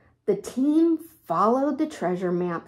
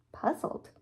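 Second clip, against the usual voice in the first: whispered; 9 dB quieter than usual. A narrator's reading. Narrating Annie's confusion.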